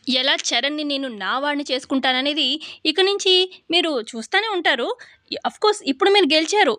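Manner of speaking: a hint of a bold young woman vowing to win back her husband; defiant daughter-in-law. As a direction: throw down the challenge, cool and sure of winning. Narrator voices Pallavi's defiant retort.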